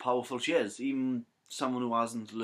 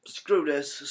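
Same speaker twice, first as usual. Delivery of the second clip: fed-up outburst; 5 semitones higher, 6 dB louder than usual. Acted. Imagined Rey angrily walking out on Luke.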